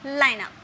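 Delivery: लाइनअप said as "LAI-na", falling; correct pronunciation. Shown as a demonstration. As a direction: model लाइनअप as one short falling word. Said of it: "लेकिन इसे बोलना क्या है?".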